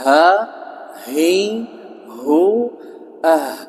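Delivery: "Ha, hi, hu, ah" one at a time, each h sounded; h-sound articulation drill. Shown as a demonstration. Teacher drilling students on the letter ha, articulation drill. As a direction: drill "Ha, hi, hu, ah" as separate held syllables. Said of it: "dilatih tadi".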